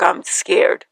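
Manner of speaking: breathless whisper; whispered fear. Retold or imitated. Scared daughter confiding to her dad, whispered. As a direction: confess it in a hushed whisper. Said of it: "I was like".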